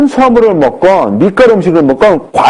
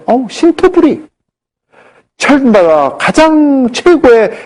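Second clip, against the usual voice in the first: smug boast; 11 semitones higher, much slower than usual. Retold or imitated. Patient boasting about fruit diet.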